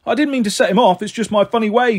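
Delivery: a hint of a cheeky cabbie teasing; jokey cabbie. Taxi driver apologising.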